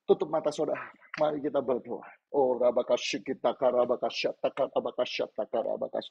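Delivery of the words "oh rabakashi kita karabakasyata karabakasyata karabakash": praying in tongues. Real, not acted. Pastor praying with eyes closed before appeal, praying in tongues.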